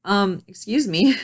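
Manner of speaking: slow, pointed retort with a laugh behind it; mock affronted. Single mom answering people pushing her to date, mock affronted. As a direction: imitate her own taken-aback comeback. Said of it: "And I'm like".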